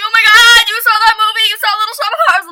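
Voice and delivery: high, loud gushing surprise; excited disbelief. Retold or imitated. Guy finding out she saw the same movie, excited disbelief. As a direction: blurt it out, thrilled and amazed.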